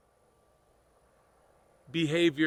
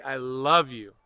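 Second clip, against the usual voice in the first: smiling self-love; 3 semitones lower, slower than usual. Shown as a demonstration. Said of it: "even try to smile at yourself and say".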